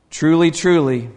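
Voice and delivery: "Truly, truly" said firmly, each word landing with a fall; emphatic repetition. Retold or imitated. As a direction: stress both words in "Truly, truly". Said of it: "he's being very emphatic".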